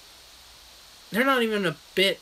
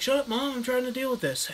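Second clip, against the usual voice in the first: put-on annoyed teen; 8 semitones higher than usual. Steve snapping at mom.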